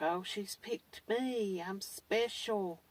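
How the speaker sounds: mock flattered. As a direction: ham up a follower feeling chosen. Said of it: "they're like".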